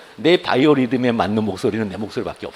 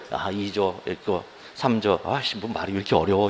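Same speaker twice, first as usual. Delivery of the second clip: grumbling student; 5 semitones lower, 6 dB quieter than usual. Retold or imitated. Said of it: "하면서 이렇게 그냥 여기 막 해요". (어려운 조문에 투덜대며 느리고 작게)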